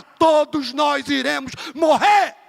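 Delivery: a slow, drawn-out preacher's shout; preaching shout. Acted. Preacher proclaiming to the church, slow ringing shout. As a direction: lean on every word and let it ring out slowly.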